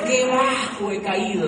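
slow, drawn-out mock lament on qué. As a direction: stretch it out like a mock sigh over himself. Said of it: "decía mi corazón".

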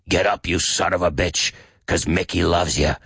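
lightly voiced shaky old trainer; old boxing coach, mildly imitated; Mickey. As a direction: urge the boxer up in a hint of a shaky old voice. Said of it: "he's got this shaky old voice like this".

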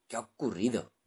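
shouting. Acted. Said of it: "gritó el capitán".

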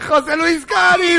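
high, slow, loud call-out; booming show announcement of the name; announcer shout. Acted. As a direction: announce him like a game-show host. Calling out contestant name.

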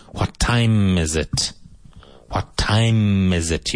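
slow, "time" with a clearly closed M. Shown as a demonstration. Teacher modelling the M sound in "time" for learners. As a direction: close the lips fully on "time". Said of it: "You must have that M in there".

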